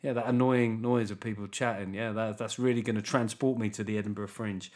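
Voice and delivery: sarcastic, unimpressed audience member; underwhelmed. Acted. Comedian voicing fans unconvinced by his crowd noise, underwhelmed sarcasm. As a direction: feign approval, then sink into dry sarcasm. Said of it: "feel people being underwhelmed there".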